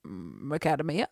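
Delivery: slow "Macadamia", said "muh-KAD-uh-mee-uh"; "Macadamia" mispronounced slowly, rising; dad's odd pronunciation. Retold or imitated. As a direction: softly answer "Macadamia", stressed on "KAD". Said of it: "And he says".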